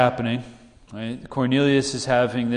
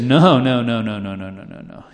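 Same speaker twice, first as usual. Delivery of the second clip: acted protest; 4 dB louder than usual. Peter refuses the Lord's command, acted protest that fades. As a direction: object firmly, then let the repeats fade away.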